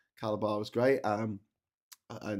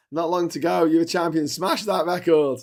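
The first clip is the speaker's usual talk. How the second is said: much higher and louder, helium squeak; squeaky pygmy voice; 6 semitones higher, 11 dB louder than usual. Retold or imitated. Rebecca cheering him on, in his squeaky pygmy voice. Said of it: "doing my pygmy voice".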